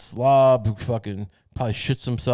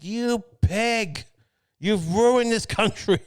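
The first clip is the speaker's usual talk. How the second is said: high, loud hammed-up yell at a rival; mock yell; 8 semitones higher, 3 dB louder, much slower than usual. Comedian's pretend Biden yelling back at Trump, hammed-up high yell. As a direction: yell it back across the stage. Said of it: "Just yell, yell back at him".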